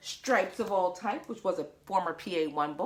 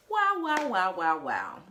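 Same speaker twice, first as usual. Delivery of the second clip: silly wows; 4 dB louder than usual. Pretend. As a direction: slide down step by step. Silly sound after the book.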